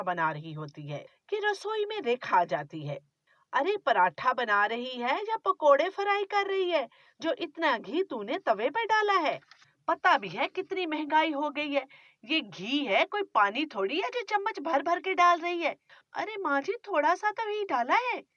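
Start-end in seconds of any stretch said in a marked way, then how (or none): 3.5-15.8 scolding, grumbling mother-in-law; a nagging miser of a mother-in-law; stingy mother-in-law. Acted. Mother-in-law scolds over ghee. 16.1-18.2 put-on higher, pleading young wife; young bride.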